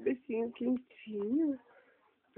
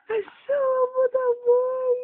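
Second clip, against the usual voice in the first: excited peekaboo; 9 semitones higher, 9 dB louder, slower than usual. Acted. Peekaboo reveal to baby.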